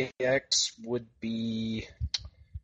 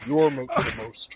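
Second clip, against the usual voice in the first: mock promo shout; 10 semitones higher, 4 dB louder than usual.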